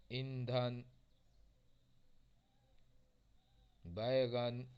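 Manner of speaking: ईंधन and बैगन read slowly, nasal n dropped; careful word reading. Shown as a demonstration. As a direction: model each word clearly for students. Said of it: "इस तरीके से हमें". (शब्दों का साफ़ उच्चारण)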